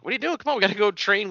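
high, eager put-on voice; Goku impression. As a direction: imitate him urging a friend along. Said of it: "And Goku's like".

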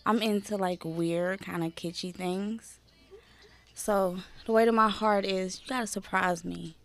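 slow, soft seductive date voice; lightly put-on seductive murmur; sexy rendezvous voice. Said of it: "you gotta give the sexy rendezvous voice".

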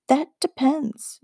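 high, slow, knowing reply; slow sly witch. Acted. Witch answering the boy, slow and knowing. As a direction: draw it out with sly mystery.

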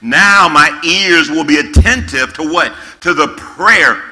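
slow, weighty scripture reading. Acted. Preacher reading scripture to young people, slow and solemn. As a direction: read God's words with gravity.

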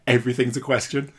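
"Everything's a question." with the pitch lifted at the end like a question; moronic interrogative. Retold or imitated. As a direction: turn the statement "Everything's a question." into a mock question. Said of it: "using the moronic interrogative".

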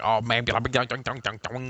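lightly mocking twangy redneck gibberish; imitated redneck twang. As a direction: babble like a super redneck, all twang. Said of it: "his voice is all fucking twangy and shit".

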